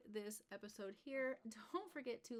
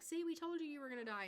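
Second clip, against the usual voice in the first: high, louder teasing told-you-so; mock taunting; 7 semitones higher, 4 dB louder, faster than usual. Ghosts gloating at the new neighbour, hammed-up taunt. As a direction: gloat at her in a playful ghost voice.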